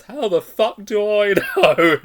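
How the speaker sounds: high, loud, slow indignant yell; hammed-up trapped girl yelling back in disbelief; exasperated shriek. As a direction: scream it up from the bottom of a well. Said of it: "the way she just delivered it".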